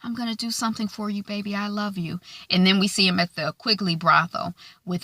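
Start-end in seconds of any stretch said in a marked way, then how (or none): 0.0-2.2 much softer, fast whispered-style promise; soft, hurried mock tenderness; tender lover. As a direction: murmur it quickly to a sick lover. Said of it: "sick bed lover".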